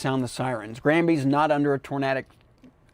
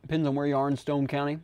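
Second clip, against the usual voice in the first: talking with mouth full; words round a mouthful of food. Real, not acted. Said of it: "Sorry, I'm talking with my mouth full".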